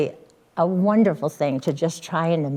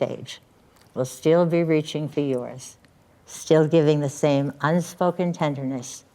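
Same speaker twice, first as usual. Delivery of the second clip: ceremonial reading. Acted. Officiant reads poem on hands.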